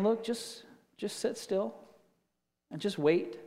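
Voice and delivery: a quiet firm word from God, almost under the breath; God's soft command. Retold or imitated. Preacher voices God telling the restless believer: hushed, soft, firm.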